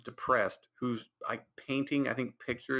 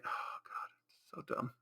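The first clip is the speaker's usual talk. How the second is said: breathy, much softer exasperated under-the-breath remark; muttered aside; 11 dB quieter than usual. Real, not acted. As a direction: sigh it off to yourself.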